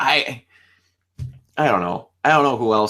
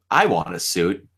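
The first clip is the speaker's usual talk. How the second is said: low, understated grumble as Cisco; bugged Cisco; 6 semitones lower than usual. Acted. Fan voices Cisco bugged about his costume, low understated grumble. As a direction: grumble it low, lightly acted. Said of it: "something's gonna bug him".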